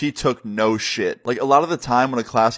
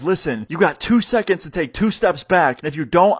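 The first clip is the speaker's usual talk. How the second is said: higher-pitched warning; threatening; 5 semitones higher than usual. Retold or imitated. Student warning the substitute before a fight, threatening. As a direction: imitate a student giving an ultimatum.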